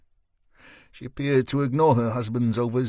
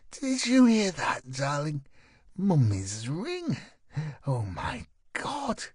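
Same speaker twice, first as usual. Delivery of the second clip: high, slow gasps of delight that break into a sob; overjoyed wife; 6 semitones higher, slower than usual. Acted. Wife thrilled to see her mother's ring back, near tears. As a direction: choke up with joy over mummy's ring. Wife shown stolen heirlooms.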